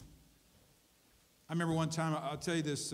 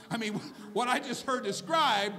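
higher, laughing disbelief building into a rant; mock outrage, starting with a laugh; incredulous rant; 5 semitones higher than usual. Real, not acted. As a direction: rant like it's too absurd to believe. Preacher mocks husband's madness.

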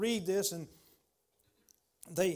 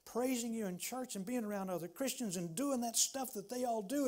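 lost believer's lament; 3 semitones higher than usual. Retold or imitated. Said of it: "I've had times in my life like that".

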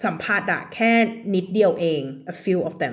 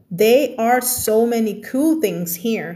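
slow reread; much slower than usual. Shown as a demonstration. Reread stressing cool.

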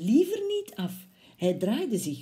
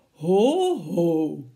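mouse calls out; 3 semitones lower, 8 dB louder than usual. Acted. Mouse calling the Gruffalo to order, loud. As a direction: call out boldly like a tiny hero. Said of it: "riep de muis".

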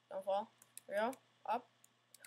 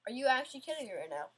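exasperated rant; much faster than usual. Real, not acted. Keeps falling off.

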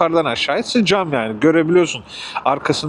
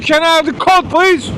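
retold polite request; 11 semitones higher, 4 dB louder than usual. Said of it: "geri zekalıya diyorum ki".

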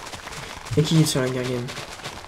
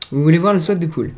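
question répétée plus fort; 7 dB louder, faster than usual. Shown as a demonstration.

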